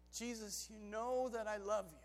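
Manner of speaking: hushed, sincere reply; earnest Peter. Acted. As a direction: answer softly from the heart. Peter answers Jesus's searching question.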